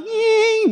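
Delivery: high "nying" cut shorter, dropping at the end; changed mosquito whine. Acted. Mosquito now politely passing the comic, high whine that falls. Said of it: "sekarang berubah".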